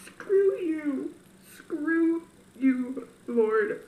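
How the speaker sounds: loud, bitter outburst at God; angry. Retold or imitated. Angrily telling God off after her grandmother died. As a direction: spit it out through tears. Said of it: "I'm like".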